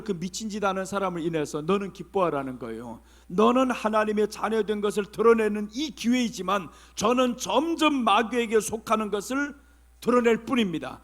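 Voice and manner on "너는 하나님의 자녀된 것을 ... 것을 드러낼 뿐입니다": normal talking voice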